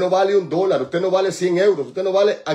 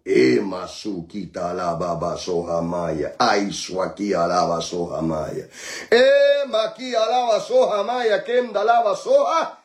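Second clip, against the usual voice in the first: speaking in tongues; 8 semitones lower than usual. Real, not acted.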